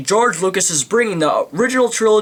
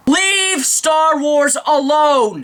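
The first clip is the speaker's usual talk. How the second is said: mock plea; 9 semitones higher, much slower than usual. Pleading rant at Lucas.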